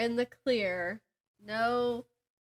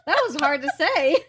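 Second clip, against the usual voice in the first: laughing; 7 semitones higher, 7 dB louder than usual. Real, not acted. Laughing at own tongue-twister.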